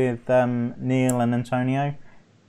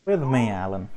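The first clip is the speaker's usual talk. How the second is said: lightly hammed Scottish, pitched down; put-on Scottish accent; 5 semitones lower than usual. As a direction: lower mock Scottish accent. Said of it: "with an accent like that".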